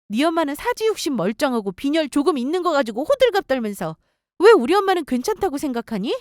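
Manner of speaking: acted scolding with rising outbursts; mildly shouted, exasperated telling-off; angry tirade. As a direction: tear into the boyfriend, indignant. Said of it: "엄청나게 소리 크게 치며 화냈어요".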